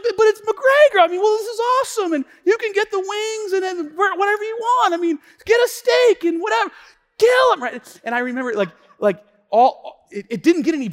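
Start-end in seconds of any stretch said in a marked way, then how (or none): 0.0-7.6 high, loud, fast fight-fan babble; hammed-up overexcited husband; frantic excited pleading. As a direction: plead your case at a shout, carried away.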